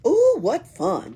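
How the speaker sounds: high, loud and slow with glee; delighted cry. A narrator's reading. Pippi cheering at the burglars' dance, high and thrilled. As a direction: squeal it out of pure delight. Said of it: "cried Pippi, clapping her hands".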